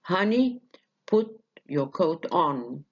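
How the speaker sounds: slow example with weight on put and on; stress on both parts. Shown as a demonstration. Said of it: "الاتنين ياخدوا ال stress".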